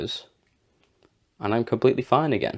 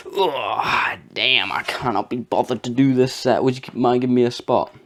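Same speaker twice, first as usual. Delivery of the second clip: relaxed friendly ask; 4 semitones higher, 3 dB louder than usual. Retold or imitated. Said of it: "the difference between that".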